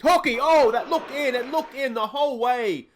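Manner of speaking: high, loud shout of disbelief; agonised commentator's yell; excited near-miss cry. Real, not acted. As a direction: cry out as the shot almost goes in, stretching the end.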